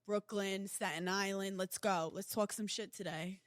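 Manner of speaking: lightly put-on New York hype intro; New York accent. Shown as a demonstration. Host greeting the Tri-State, light New York accent. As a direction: welcome listeners with a touch of New York accent. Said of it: "if we were from New York".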